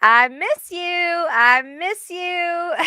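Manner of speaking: slow, high, longing plea. Retold or imitated. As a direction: ache for someone you lost. Spirit voiced, longing.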